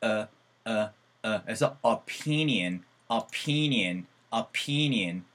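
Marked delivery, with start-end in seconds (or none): 1.8-5.2 opinion said with a short "uh" start, "apinian"; apinian sound. Shown as a demonstration. Teacher drilling opinion with an uh start. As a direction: open the first o of "opinion" to an uh. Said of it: "opinion 사운드거든요".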